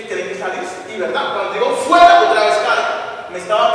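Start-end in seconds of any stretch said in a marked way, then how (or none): 1.7-2.2 high, loud shouted order; forceful re-enacted command; retold exorcism command. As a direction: shout it out as if expelling a demon. Re-enacts casting out a demon.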